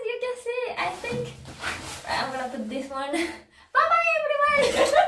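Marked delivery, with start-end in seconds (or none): 3.7-4.9 high, loud, laughing bye; laughing fake goodbye. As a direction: joke a goodbye through laughter. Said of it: "No, I'm kidding".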